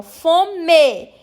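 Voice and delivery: Fome and comer split to show the shared ending; syllable by syllable. Shown as a demonstration. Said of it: "Então, o final é igual". (Fome e comer separados em sílabas)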